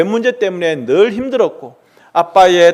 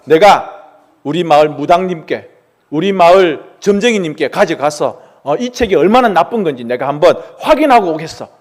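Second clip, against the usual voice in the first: mild anger. Acted. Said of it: "라고 화를 내면서".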